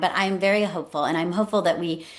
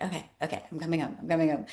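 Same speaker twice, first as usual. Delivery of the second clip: much softer, defeated okay; meek giving in; 7 dB quieter, much faster than usual. Retold or imitated. Wife finally agreeing to husband to come home, softly resigned. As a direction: give in softly like a scolded kid. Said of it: "And I'm like".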